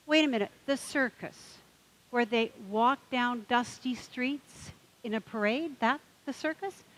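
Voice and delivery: mock-indignant questions piling up; worked-up duck.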